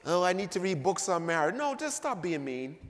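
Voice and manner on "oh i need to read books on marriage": mocking whine. Preacher mocks congregation excuse.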